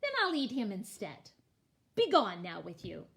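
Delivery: gruff greedy troll, a bit fast. Acted. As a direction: bark like a hungry troll.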